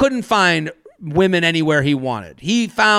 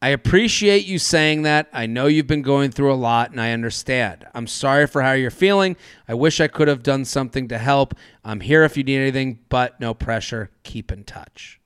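gentle reply; 5 semitones lower than usual. Acted. Reads her gentle reply text.

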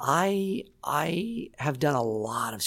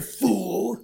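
high mock villain yell; Electro; 8 semitones higher, slower than usual. Shown as a demonstration. Voice actor replays his screamed game line, high hammed-up villain yell. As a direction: throw it out as a pitched-up villain battle cry.

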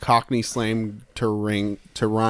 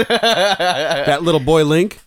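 laughing whisper; 3 semitones higher, 4 dB louder, slower than usual. Real, not acted.

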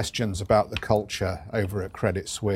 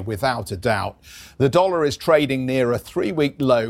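rapid market news; 2 semitones higher than usual. Acted. Anchor reading market news intro.

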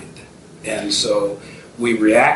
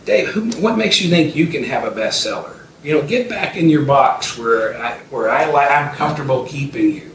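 mock put-down, pitched up at the start; belittling naysayer; 4 semitones higher than usual. Naysayer putting Dave back in his box, mildly belittling. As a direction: lightly voice a doubter cutting someone down. Voicing people who bring you down.

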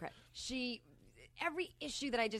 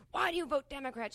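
higher, indignant demand; mock angry screaming; 4 semitones higher, 3 dB louder than usual. Friend's husband challenging sister's vote, mildly yelled. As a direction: imitate a man haranguing someone, only partly raised. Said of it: "so he's screaming at her".

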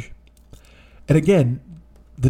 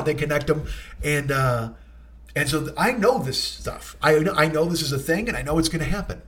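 ordinary talk

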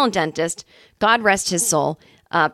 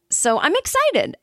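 sarcastic excited; 11 semitones higher, slower than usual. Real, not acted.

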